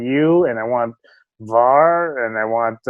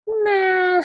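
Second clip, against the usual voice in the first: dismissive nah. Retold or imitated. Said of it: "and I'm like".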